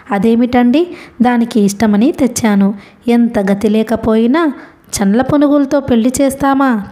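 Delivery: plain reading voice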